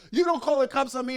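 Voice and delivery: high-pitched mock outrage; retold indignation. Dad warning the guy about cops, acted indignant. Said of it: "he got all pissed off about it".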